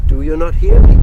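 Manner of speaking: very high, strained call; loud cry. Acted. Landlord shouting at the deaf grandmother, high strained cry. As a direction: call up to a deaf old woman. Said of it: "cried the landlord, as loud as he could".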